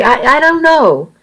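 high, faltering stammer; unsure, tripping over words; helpless stammer. A narrator's reading. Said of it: "I answered helplessly".

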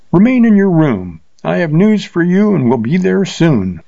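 cheerful. A narrator's reading. Rider calling up to Willie Pond in the window, cheerful and high. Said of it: "said in a cheerful voice".

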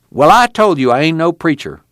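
protesting. A narrator's reading. Casey refusing the title of preacher, protesting. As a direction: insist on the correction.

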